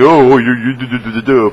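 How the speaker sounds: high, loud mocking stammer; mock troll babble. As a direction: stutter it like a jeering troll. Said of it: "the people will be like".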